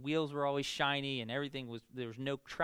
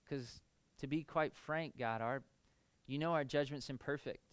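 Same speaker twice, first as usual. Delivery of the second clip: prayer. Acted. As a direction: pray gently over the congregation. Leads closing prayer.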